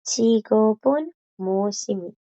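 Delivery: fast 직업은 무엇입니까 with 직업은 stressed; formal Korean demo. Shown as a demonstration. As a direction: read 직업은 무엇입니까 for students. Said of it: "Y la de abajito".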